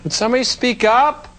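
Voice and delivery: high, loud demand; mock exasperated call. Listener begging mumbling actor to speak up, high loud call. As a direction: call out like you can't hear. Riffer complains film is inaudible.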